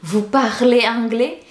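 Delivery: mildly pitiful plea, rising at the end; pleading. Shown as a demonstration. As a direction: ask with a pitiful, begging look. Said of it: "Dengan muka memelas".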